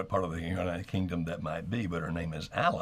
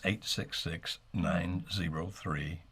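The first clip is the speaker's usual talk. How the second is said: slow, careful phone number; slow number read; slower than usual. Shown as a demonstration. Host reading the number to viewers, slow and careful. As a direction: spell out each digit slowly for the viewer. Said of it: "reading phone number slowly".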